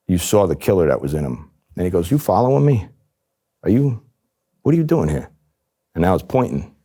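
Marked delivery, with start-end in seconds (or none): 2.1-5.3 much higher, suspicious demanding questions; imitating a gangster's menacing suspicion; retold accusation. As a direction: confront him as if caught being tailed. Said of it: "Now it becomes intimidating".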